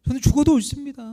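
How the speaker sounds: imitating an insistent protest; adamant conviction. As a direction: act out a stubborn, certain reply. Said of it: "아주 확신 있게 이야기를 했죠".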